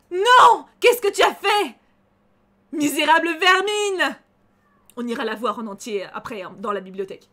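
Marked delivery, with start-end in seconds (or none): 0.1-4.2 loud, higher enraged cry; villain's fury. Acted. Streamer voicing the dying dryad, loud furious cry. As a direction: rage like a wounded monster. Voicing the burning Madriade's rage.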